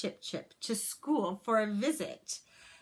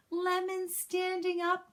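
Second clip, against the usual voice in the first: high, bright excited call; 11 semitones higher than usual. Acted. Myra calling out to the class, high and excited. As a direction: call out the good news. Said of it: "Myra called".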